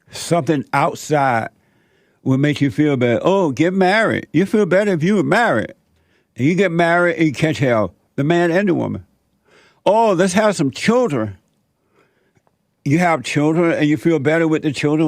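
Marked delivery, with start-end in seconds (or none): 3.2-5.7 higher-pitched imitation of a well-meaning adviser; mock eager advice. Someone telling the unhappy to get married, mock eager advice. Voicing others' imagined advice. 9.9-11.4 higher-pitched imitation of a hopeful spouse; mock hopeful suggestion. Married couple deciding on children as a fix, mock hopeful.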